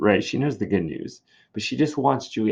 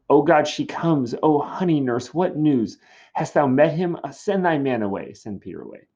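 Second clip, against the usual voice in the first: higher, eager, pressing for news; anxious Juliet; 6 semitones higher, 4 dB louder than usual. Acted. Juliet greeting the nurse, anxious for news. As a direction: greet her with impatient excitement. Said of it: "Juliet is just anxious for her news".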